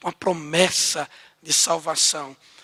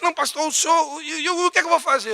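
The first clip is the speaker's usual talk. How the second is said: higher, anxious pleading woman; pestering plea; 8 semitones higher, faster than usual. Retold or imitated. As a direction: press the pastor, a bit higher and quicker. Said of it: "ela começou a pegar no meu pé". (imitando uma mulher insistente, voz mais aguda)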